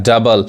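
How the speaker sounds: डबल said as "duh-bal"; डबल with no o sound; silent O. Shown as a demonstration. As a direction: say डबल with a short uh. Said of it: "ओ नहीं पढ़ाता है".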